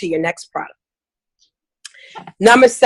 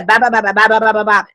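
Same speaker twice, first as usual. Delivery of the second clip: mock babble; faster than usual. Mimics consultant babbling on.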